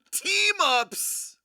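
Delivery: breathy whispered pick name; excited whisper. Real, not acted. Host whispering the pick to himself. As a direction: whisper it like a secret.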